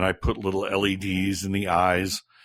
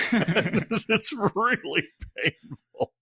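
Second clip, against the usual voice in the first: laughing; 12 semitones higher, much slower than usual. Real, not acted. Laughing about painful skydive straps.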